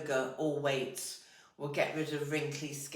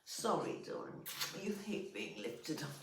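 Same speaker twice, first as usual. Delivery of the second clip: ordinary talk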